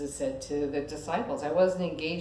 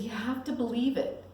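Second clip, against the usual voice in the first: gentle reassurance; 7 semitones higher than usual. Retold or imitated. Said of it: "He said".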